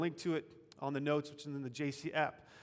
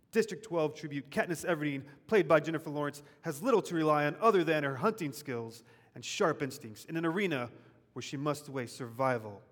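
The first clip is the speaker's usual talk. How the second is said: movie trailer voice. Shown as a demonstration. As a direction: hype it like a film trailer. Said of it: "like, movie trailer voice to get you psyched".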